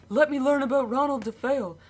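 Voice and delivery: eager quote. Retold or imitated. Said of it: "'Cause I was like".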